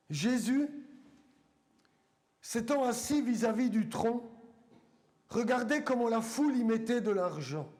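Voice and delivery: measured Bible reading with long pauses between phrases; deliberate, weighty reading aloud to a congregation; solemn scripture reading. Acted. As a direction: read it out phrase by phrase, letting each one land.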